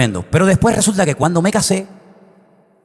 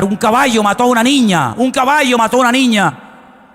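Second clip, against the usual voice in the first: raised-pitch cry of alarm, retold; crowd crying out; 4 semitones higher than usual. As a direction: call out like alarmed onlookers, not full volume. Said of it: "la gente comenzó a gritar". (grito de alarma imitado)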